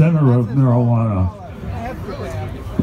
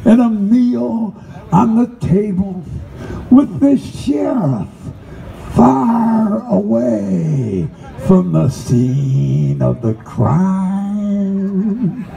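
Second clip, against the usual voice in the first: slow, incantatory spoken-word delivery; chant-like poetry reading, stretching key words long; poem recital; slower than usual. Acted. Recites his poem Spiritual.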